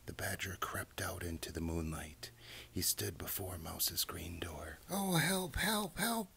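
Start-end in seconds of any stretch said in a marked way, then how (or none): 4.9-6.3 very high, squealed mouse cry for help; panicked cry. A narrator's reading. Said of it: "cried Mouse".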